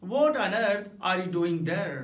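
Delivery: slow "What on earth are you doing there?", "What" stressed; drawn out "What on earth are you doing there?"; emphatic. Shown as a demonstration. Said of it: "ये कह सकते हैं". ("What on earth are you doing there?" ज़ोर देकर)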